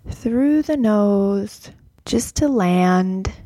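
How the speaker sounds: guided meditation. Acted. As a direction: guide them gently into the breath. Leads guided breath practice.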